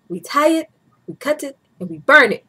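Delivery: playful Asian-accent impression, punched out emphatically; imitated Asian accent. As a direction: imitate an Asian doctor's accent, laughing near the end. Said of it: "so that accent, he goes".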